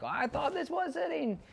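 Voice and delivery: high, loud put-on voice of a puzzled dog; the dog complaining, voiced high and loud; voicing the confused dog. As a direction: squeak it out like the dog protesting. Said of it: "She's like".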